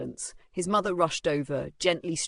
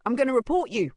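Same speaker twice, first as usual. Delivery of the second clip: put-on high, loud girl's threat; shouting; 8 semitones higher, 7 dB louder, faster than usual. A narrator's reading. Female student threatens to report the bullies, shouting. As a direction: shout a warning as a schoolgirl. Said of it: "a female student shouted".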